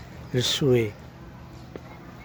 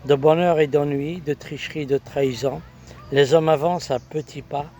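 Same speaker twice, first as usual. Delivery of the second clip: measured poetic recitation in short, paused phrases; poem recital. Acted. Poet reciting the announced recital on love and woman, declaimed poem. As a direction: recite it line by line, lifting the openings.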